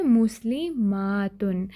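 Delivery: मुस्लिमातुन with the long मा stretched; drawn-out plural ending. Shown as a demonstration. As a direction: lean slowly on मा in मुस्लिमातुन. Teacher contrasts plural ending with singular. (मुस्लिमातुन में मा को खींचकर)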